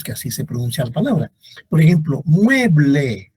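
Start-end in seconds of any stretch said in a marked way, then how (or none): 2.2-3.3 MUE-ble, falling after the first syllable; stress on first syllable. Shown as a demonstration. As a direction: lean long on MUE in "mueble". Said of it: "Tiene acento en mue".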